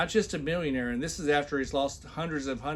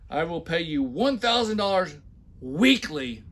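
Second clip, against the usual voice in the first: louder, pompous read of the offer; mock the boss's big promise; loud, hammed-up mock read; mock emphatic reading; 3 semitones higher, 5 dB louder than usual. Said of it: "when I put heavy accents and shout".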